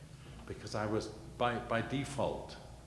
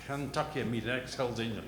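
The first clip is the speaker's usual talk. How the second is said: Brooklyn caller; 4 semitones higher, 5 dB louder than usual. Retold or imitated. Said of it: "And he said".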